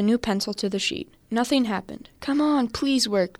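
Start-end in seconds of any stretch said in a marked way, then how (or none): 2.2-3.4 slow, higher pleading; begging. Acted. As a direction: plead with the pencil slowly. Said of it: "Jake begged".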